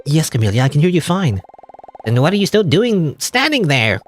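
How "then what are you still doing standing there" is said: urgent call. Acted. Camellia calls out, urging escape.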